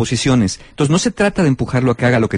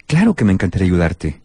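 sincere; 4 semitones lower than usual. Shown as a demonstration. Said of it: "El tono de voz va a determinar la intención".

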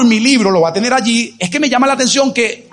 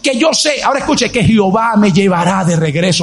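raised, driving pulpit delivery; impassioned preaching; 3 semitones higher than usual. Acted. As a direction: preach it with rising conviction.

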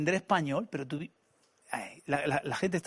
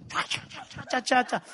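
imitated gibberish; 5 semitones higher, 4 dB quieter, slower than usual. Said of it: "hacía el gesto así".

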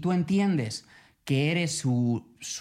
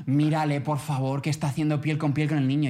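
calling a colleague. Retold or imitated. Nurse calls Mariluz over to see the dad, excited. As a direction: sing out her name in delighted disbelief. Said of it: "y llama".

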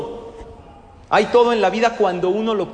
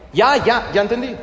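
put-on fed-up child; 4 semitones higher, 3 dB louder than usual. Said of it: "Hasta que tu hijo que te diga".

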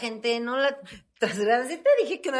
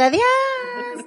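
despedida aguda; 12 semitones higher than usual. Pretend. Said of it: "saludando a las maletas así de".

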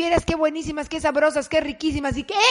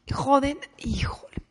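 whispered dismay. Real, not acted. Shoes chewed up.

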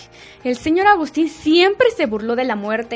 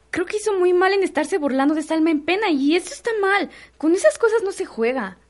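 higher-pitched, earnest reproach; indignant disapproval; 5 semitones higher than usual. Acted. Maid scolds mocking of spirit. (reproche indignado)

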